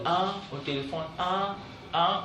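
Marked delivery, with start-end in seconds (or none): 0.0-0.3 hesitant ah. Retold or imitated. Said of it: "il a toujours des histoires de". 1.2-2.2 hesitant ah ah. Retold or imitated. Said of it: "au lieu de dire".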